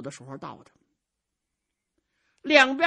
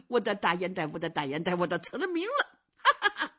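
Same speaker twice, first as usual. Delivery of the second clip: put-on proud old man; 4 semitones lower than usual. Old swordsman chuckles proudly.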